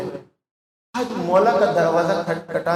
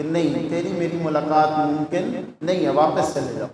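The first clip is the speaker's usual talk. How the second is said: a hint of a lower, stern turning-away; lightly voiced refusal from behind the door, lower; voice from the shrine; 5 semitones lower, 3 dB quieter than usual. The shrine answers the visitor, lightly voiced, low and stern. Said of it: "آواز آتی ہے".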